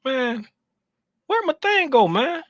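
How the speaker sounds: exasperated search for a lost tool; real irritation; frustrated. Real, not acted. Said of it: "I'm really getting pissed off right now".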